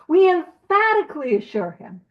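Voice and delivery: EMPHATICALLY punched out firmly; weighty stress on "emphatically"; emphatic. Real, not acted. Reading the text aloud to the group, emphatic. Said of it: "with emphasis".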